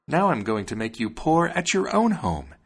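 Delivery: high-pitched bird threat; high, vengeful little bird; threatening sparrow. A narrator's reading.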